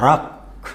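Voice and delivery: రాక్ alone, ending on a released k; syllable by syllable. Shown as a demonstration. Teacher isolating the first syllable, said separately. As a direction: give రాక్ by itself and stop. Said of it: "ఇందులో మనము".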